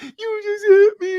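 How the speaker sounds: loud, slow, very high wail; drawn-out hammed-up falsetto sob; mock crying. Imitating cellmate saying he was hit, mock crying. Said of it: "he starts crying, bro, saying I hit him".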